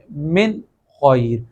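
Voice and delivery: من with a distinct n, then خیر; clear pronunciation. Shown as a demonstration. Teacher reads the second example, clear unmerged n in من خیر. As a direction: keep the n of من crisp and separate from خیر. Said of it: "تو ہم یہاں پہ پڑھیں گے".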